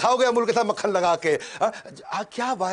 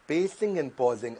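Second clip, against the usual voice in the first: lower, measured "pacing and pausing", with pauses; deliberate pausing; 5 semitones lower, 4 dB quieter, much slower than usual. Shown as a demonstration. Speaking coach shows how pausing works, deliberately paused. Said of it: "अब मैंने दे दिया pause".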